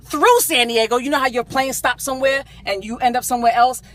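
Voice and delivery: high, loud, hammed-up outrage; retold indignant tirade. Customer scolding the restaurant manager over the burrito, hammed-up indignation. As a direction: tear into them, stretching the key words for effect.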